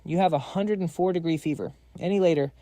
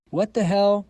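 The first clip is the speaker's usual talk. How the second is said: higher and louder startled cry; shocked outburst; 6 semitones higher, 6 dB louder, slower than usual. Acted. Finding someone barging in, shocked outburst. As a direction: blurt it out in shock. Bursts in on unexpected scene.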